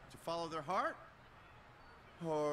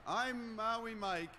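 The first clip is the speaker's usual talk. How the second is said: slow laid-back lounge croon; a chilled-out harbour singer crooning to the crowd; 3 semitones higher, 12 dB louder, slower than usual. Acted. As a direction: stretch every word, easy and mellow. The speaker's mellow onstage persona.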